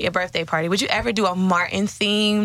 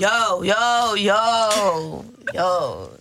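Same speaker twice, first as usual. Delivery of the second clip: man voice; much slower than usual. Pretend. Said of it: "Do your man voice".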